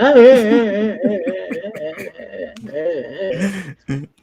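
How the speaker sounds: long wavering wail; drawn-out pretend bawling; mock crying. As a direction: imitate a kid sobbing on and on. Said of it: "this dude just started crying".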